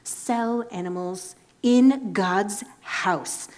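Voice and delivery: whispered, slow scandalized gasp; mock pious outrage. Offended Christians judging the merchants, hushed mock outrage. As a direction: clutch your pearls in a hushed hiss.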